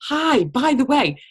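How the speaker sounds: high, slow, drawn-out hello; slow high friendly hello; casual opener. Shown as a demonstration. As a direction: ease in casually. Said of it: "message that person".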